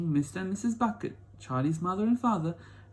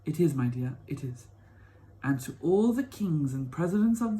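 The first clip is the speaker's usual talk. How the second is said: put-on eager old grandpa. Grandpa Joe voiced in story.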